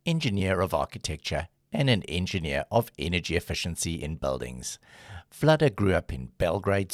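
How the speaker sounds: even, scripted intro narration; polished radio-style guest introduction; podcast intro read. Acted. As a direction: read the guest's bio like a host.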